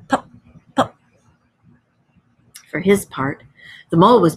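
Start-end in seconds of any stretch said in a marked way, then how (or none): 0.1-0.9 murmured. A narrator's reading. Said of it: "and murmured".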